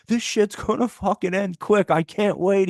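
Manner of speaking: high mock voice of the irate guy; high-pitched imitation of an angry man; angry customer. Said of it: "he's like".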